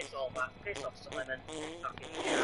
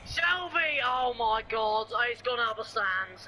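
excited commentary; 2 semitones higher than usual. Real, not acted. Gamer exclaiming as a shot flies out of the stands, excited. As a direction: stretch out the astonished call. Reacting to a wild shot in game.

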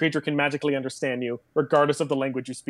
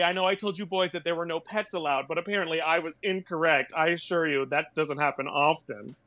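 usual speaking voice

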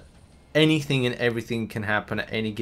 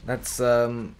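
coaxing the game; 8 semitones higher than usual. Real, not acted.

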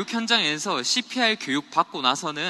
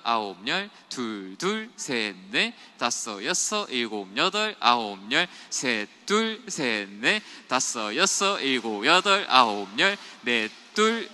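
clipped counting beats, lower and steady; staccato; 4 semitones lower, slower than usual. Shown as a demonstration. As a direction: chop each count off sharply. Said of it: "이 스타카토로 딱딱 끊어가지고".

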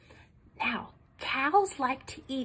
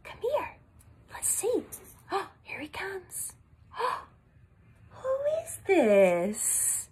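hushed reveal; 4 dB quieter than usual. Acted. Teacher revealing a hidden puppet.

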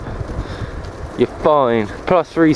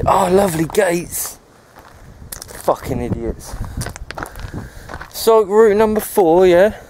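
higher-pitched indignant rant with jabbing yeah?; exasperated rant; 4 semitones higher than usual. Real, not acted. Cyclist scolds Sustrans over the locked gates, higher-pitched and indignant. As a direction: vent at the route planners, challenging them.

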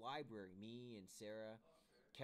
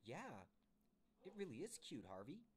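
Sarah agreeing cutely; 4 semitones higher than usual. Acted. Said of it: "And Sarah says".

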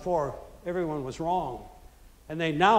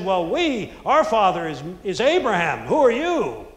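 louder, challenging retort; indignant Pharisees; 6 dB louder than usual. Retold or imitated. Pharisees defiantly answering Jesus, loud and indignant. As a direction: push back, offended.

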